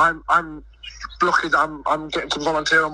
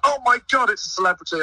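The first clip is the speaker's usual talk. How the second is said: mock squeal of starstruck kids, rising high; imitating children going wild over a celebrity; excited kids; 7 semitones higher than usual. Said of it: "all the kids were like".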